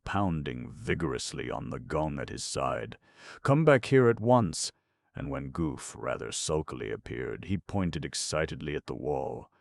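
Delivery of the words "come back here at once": high, loud angry order; loud command. A narrator's reading. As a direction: bellow him back to the throne. King summons chamberlain.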